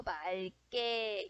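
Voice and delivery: "맑게" said slowly as [말께], the ㄹ sounded; demonstrated pronunciation. Shown as a demonstration. Teacher showing the class that "맑게" sounds as 말께, slowly articulated. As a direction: stretch "맑게" into 말-께, soft and careful. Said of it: "발음이 어떻게 난다는 거야?".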